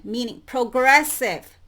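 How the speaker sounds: loud stress on progressive; emphasis on progressive. Shown as a demonstration. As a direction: punch the word progressive. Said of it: "The emphasis here that I want to put on".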